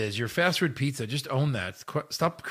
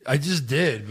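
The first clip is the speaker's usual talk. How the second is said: laughing; slower than usual. Acted. Laughing reply in role.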